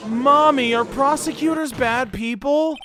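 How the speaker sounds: lightly voiced little kid; child voice. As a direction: ask it like a small child. Voicing a child in game.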